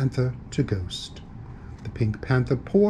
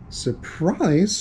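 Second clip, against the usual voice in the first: mild mock shout, pitched up; indignant shout; 5 semitones higher than usual. Ghost to unafraid Panther, mildly shouted disbelief. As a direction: throw the word back in disbelief. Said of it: "shouted the ghost".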